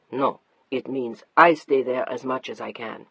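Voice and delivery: a hint of a patient husband. Narrator voices husband Mark.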